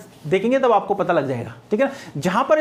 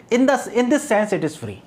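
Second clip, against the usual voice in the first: slow dictation; much slower than usual. Shown as a demonstration. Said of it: "dictating a definition".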